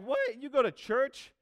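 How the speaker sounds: high, loud retold disbelief; astonished. Teen learning his buddy goes to church, astonished. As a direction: blurt it way up high in mock shock. Acting own shock at buddy.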